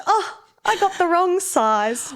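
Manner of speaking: high, loud laughter through the words; laughing. Real, not acted. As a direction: laugh as you tell the kind trick. Laughing retelling nurse's trick.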